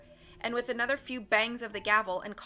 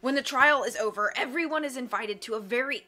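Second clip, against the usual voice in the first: loud, boastful villain with a higher pitch; Count Olaf; 3 semitones higher, 7 dB louder than usual. Acted. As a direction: brag loudly to the whole court. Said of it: "Count Olaf added".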